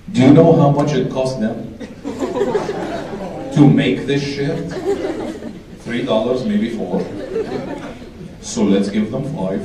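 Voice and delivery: put-on low, slow Arab dad accent; deep, stubborn Arab dad; arabic accent. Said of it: "the same thing every Arab dad says".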